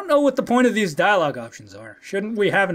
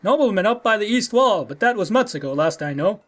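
bad Russian accent. Had giving up the Scalfings' whereabouts, bad Russian accent. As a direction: do a rough attempt at a Russian accent. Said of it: "really bad Russian accent".

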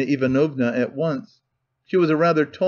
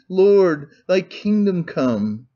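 fervent cry; 4 semitones higher, much slower than usual. Acted. Drunk clerk's fervent closing prayer.

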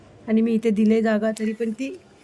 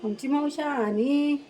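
tender praise; 4 semitones higher, slower than usual. Real, not acted.

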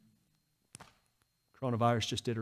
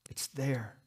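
whisper; 2 semitones higher than usual. Real, not acted. Quiet aside in sermon.

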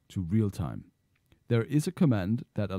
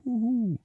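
slow-motion whoosh; 13 semitones higher than usual. Retold or imitated. Mimics slow-motion game sound.

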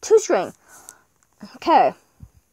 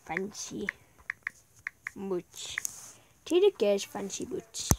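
whispered; 3 semitones lower, 9 dB quieter, slower than usual. Real, not acted. Reading item name softly.

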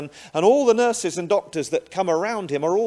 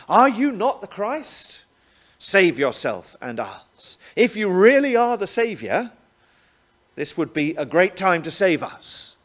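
bitter taunt; 4 semitones higher, 5 dB louder than usual. Acted. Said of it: "he says through the gritted teeth of his own agony".

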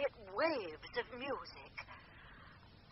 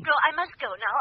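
sudden urgent; 3 semitones higher, 11 dB louder, faster than usual. Acted. Medium abruptly ends the call.

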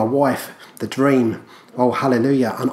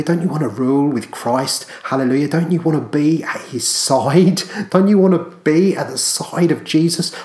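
fervent appeal; 3 semitones higher than usual. Real, not acted. Preacher appealing to listeners, fervent and raised. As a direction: lift each question to them.

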